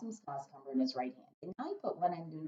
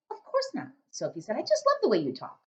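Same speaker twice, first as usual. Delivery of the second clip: put-on little girl voice; 6 semitones higher, 4 dB louder than usual.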